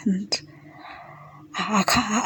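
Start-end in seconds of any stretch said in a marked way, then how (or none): 1.5-2.2 choked crying. Retold or imitated. Overwhelmed, can't move.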